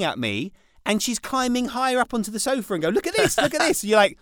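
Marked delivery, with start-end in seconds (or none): 2.9-3.8 put-on high shouted child's call; loud high little girl voice; imitating daughter. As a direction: call out like a kid showing off. Daughter calling from sofa.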